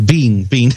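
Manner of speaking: "Bean, Bean." with Ben said as a long ee, Bean; Kiwi-style "Bean, Bean." instead of Ben; New Zealand Ben. Retold or imitated. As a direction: imitate the New Zealand vowel, "Bean, Bean." like bean the vegetable. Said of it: "I'm always Bean".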